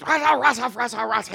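mock angry ranting. Coach berating the player in gibberish, angrily. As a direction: imitate a coach chewing someone out.

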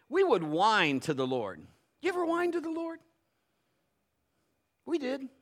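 ordinary delivery

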